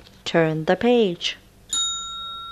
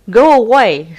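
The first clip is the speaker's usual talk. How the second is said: loud barking command; big dog shout; 4 semitones higher, 9 dB louder than usual. Acted. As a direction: chase the kitten off, loud. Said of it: "said a big dog".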